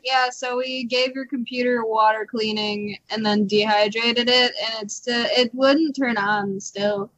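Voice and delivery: imitating an offhand repair guy; mock nonchalant voicemail. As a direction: report it casually, as if it's no matter. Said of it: "so nonchalantly".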